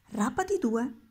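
put-on the old wizard's victorious cry; triumphant exclaim. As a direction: crow it out in triumph. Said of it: "esclamò il vecchio trionfante".

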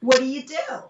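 sudden perked-up interest; surprised listener suddenly interested. Retold or imitated. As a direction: pitch leaps up on really. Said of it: "And then he'll say".

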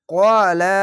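ক্বালা with long "qaa", short "la"; one-alif elongation. Shown as a demonstration. Teacher modelling a Quran word, long "qaa" in ক্বালা. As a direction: draw out the first vowel of ক্বালা. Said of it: "এক আলিফ টেনে পড়বেন".

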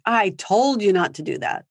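mild mock scold; a hint of told-you-so taunting; lightly voiced nagging parent. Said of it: "do things like".

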